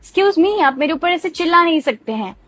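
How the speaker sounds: a touch of offended pushback; mock indignant. Shown as a demonstration. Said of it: "तो आप क्या कहते हैं?".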